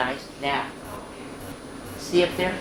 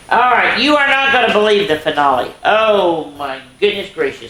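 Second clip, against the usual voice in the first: excited; 7 semitones higher, 6 dB louder than usual. Real, not acted. Hyping up the ending.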